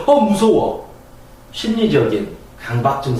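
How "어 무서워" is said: higher, startled little fear; child frightened by an angry adult; scared child. Acted. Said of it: "어른들이 화를 내면".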